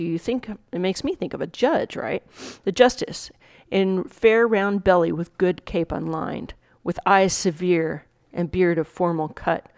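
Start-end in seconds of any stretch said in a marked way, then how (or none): 2.6-9.7 measured Shakespeare monologue reading; dramatic recitation. Acted. Teacher reading the monologue to students, dramatic recitation. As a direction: recite it with weight on each new figure.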